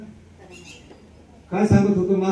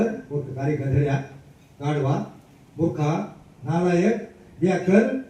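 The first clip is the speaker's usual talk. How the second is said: retold insults. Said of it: "त्याला जेवढ्या मराठी, हिंदी, इंग्रजी शिव्या".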